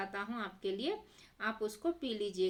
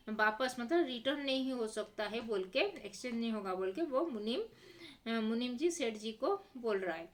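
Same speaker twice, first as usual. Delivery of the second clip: normal talking voice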